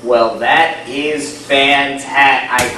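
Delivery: slow, loud hint of posh English; lightly hammed-up posh British accent; posh British gent. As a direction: drawl it like a toff. Continues posh voice.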